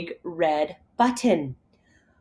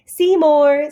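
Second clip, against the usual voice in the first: loud high call of the name; searching call; 7 semitones higher, 7 dB louder than usual. Acted. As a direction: call across the factory. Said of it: "Splat called".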